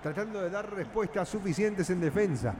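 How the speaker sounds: steady running radio match call; football radio narrator in full flow; live football play-by-play. Acted. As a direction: narrate the passes as they happen.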